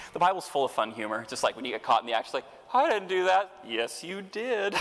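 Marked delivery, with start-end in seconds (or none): 2.7-3.5 high, loud protest of innocence; caught denying. Retold or imitated. Someone caught in the act denying it, high and loud. 3.6-4.7 high and slow, drawn-out knowing correction; knowing reply. Retold or imitated. God catching Sarah's denial, high, slow and knowing. God answering the caught denier.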